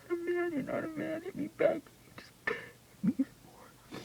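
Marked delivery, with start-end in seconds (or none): 0.1-1.8 mock angry taunt, higher pitched; taunting abuser. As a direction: retell his jeering taunt, not shouted in full. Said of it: "He goes".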